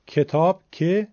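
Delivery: کتاب, then که as a short open 'ke'; short kasra. Shown as a demonstration. Teacher contrasting kasra with ya, short 'e' in کتاب. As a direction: isolate the first syllable of کتاب as 'ke'. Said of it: "این تفاوت در بین واو و ضمه هم هست".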